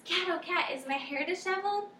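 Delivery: lightly voiced dog fishing for a compliment; dog begging for praise.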